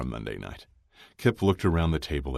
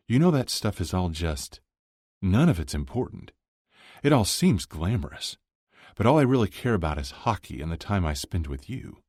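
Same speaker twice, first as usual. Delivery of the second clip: a touch higher, earnest reassurance; lightly voiced earnest boyfriend; 5 semitones higher than usual. Scott reassures Kip about what matters, lightly earnest. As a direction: play down the glamour, lightly in character.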